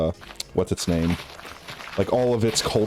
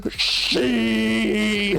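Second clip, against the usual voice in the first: high laughing sheesh yell; old people's sheesh; 11 semitones higher than usual. Retold or imitated. Imitating old people screaming sheesh on TikTok, laughing. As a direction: screech it like a grandparent who doesn't get it. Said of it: "all the old people go".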